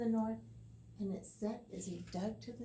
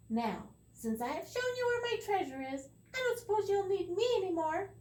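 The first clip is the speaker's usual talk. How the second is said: high, louder tiny leprechaun voice; 9 semitones higher, 5 dB louder than usual. Acted. The leprechaun slyly asks Tom to release him. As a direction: ask slyly to be let go.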